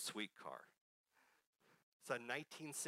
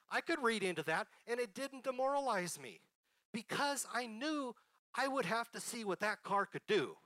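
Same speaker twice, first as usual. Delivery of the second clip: laughing; 10 semitones higher, 6 dB louder than usual. Real, not acted. Laughing at his father's refusal.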